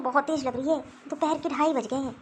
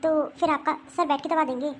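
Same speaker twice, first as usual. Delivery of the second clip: puzzled daughter-in-law; 3 semitones higher than usual. Acted. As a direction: wonder aloud why she is scolded.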